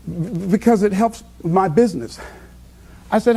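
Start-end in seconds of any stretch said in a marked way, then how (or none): 0.1-2.2 imitated stutter. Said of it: "she stutters".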